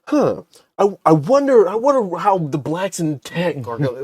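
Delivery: high-pitched mock wondering; mock musing. Guest imitating white people who supposedly think about Black techies, high mock musing. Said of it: "gonna sit and be like".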